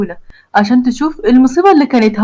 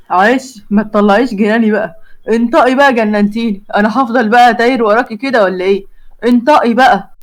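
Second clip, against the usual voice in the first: Hazem's voice. Acted. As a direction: dig in like a lovesick hothead. Hazem presses her.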